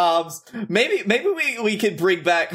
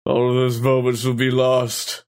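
low, solemn deathbed monologue; dying villain; 3 semitones lower than usual. Acted. Dying clone's last words to Dominic, low solemn monologue. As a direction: let it sink low, pausing between phrases. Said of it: "He dies at the end. He's like".

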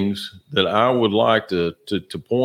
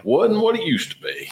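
squeaky voice; 12 semitones higher than usual. Acted. High squeak remark.

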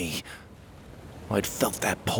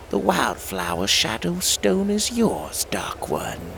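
Lunar Queen; slower than usual. Acted. Lunar Queen hands over stone.

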